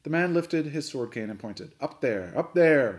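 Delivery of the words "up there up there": snapped. A narrator's reading. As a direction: snap it out, building on the repeat. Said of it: "he snapped".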